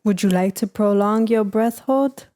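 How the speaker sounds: measured mock tutorial voice; breathing coach with put-on accent; Wim Hof. Instructing viewers on breath hold, mock coach accent. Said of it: "that's the Wim Hof breathing".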